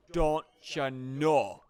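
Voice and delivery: slow drawn-out Minnesota "Don't ya know?"; Minnesota accent. Retold or imitated. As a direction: imitate a Minnesota woman, slowly. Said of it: "heard a woman say".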